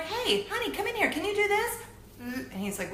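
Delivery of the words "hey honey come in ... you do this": high, eager call to the next room; calling husband. Retold or imitated. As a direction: call him in, all worked up.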